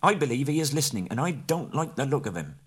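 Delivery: wary hobbit. A narrator's reading. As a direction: distrust the bird aloud. Bilbo suspicious.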